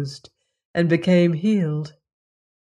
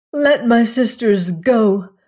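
crying out; 5 semitones higher, 5 dB louder than usual. A narrator's reading. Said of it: "she cried".

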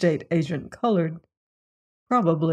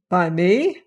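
slightly alarmed. A narrator's reading. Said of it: "exclaimed Crane, looking slightly alarmed".

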